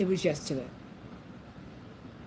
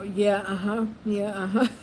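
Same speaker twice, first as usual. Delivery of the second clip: absent uh-huhs; 4 dB louder than usual. Retold or imitated. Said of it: "I would just go".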